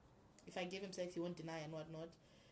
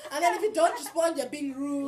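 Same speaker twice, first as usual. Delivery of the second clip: laughing; 11 semitones higher, 20 dB louder than usual. Real, not acted. Laughing complaint about harassers.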